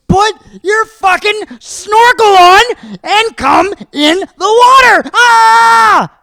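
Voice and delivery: full-volume, high reenacted scream; retold furious scream. Dad retelling screaming at his son on the beach, screaming. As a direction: scream the order slowly, word by word. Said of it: "screaming at my son".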